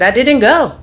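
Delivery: insist, then break into a laugh; young self telling mom she skipped it. Retold or imitated. Quoting her defiant young self.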